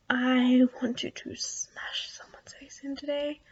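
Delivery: slow whisper. Real, not acted. Whispering, parents asleep.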